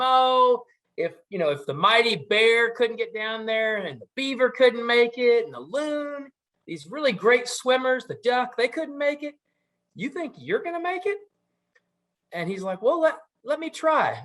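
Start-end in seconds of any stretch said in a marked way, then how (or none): 0.0-11.2 teasing doubt, climbing higher in pitch; joshing. Acted. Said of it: "kinda josh him a little bit and joke". 12.8-14.2 high little critter pleading for a turn; squeaky muskrat voice. Acted. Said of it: "this little squeaky voice".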